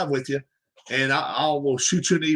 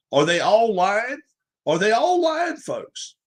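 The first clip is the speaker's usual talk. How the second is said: much higher, disbelieving ask; incredulous; 4 semitones higher than usual. Real, not acted. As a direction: throw the question up high in disbelief. Incredulous rhetorical question to audience.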